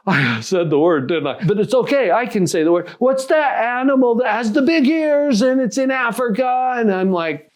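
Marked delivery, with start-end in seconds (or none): 3.0-6.7 high-pitched imitated teenager; imitated eager kid, pitched up; eager teen. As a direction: play a teen fishing for the word. Acting out teen trying to trick.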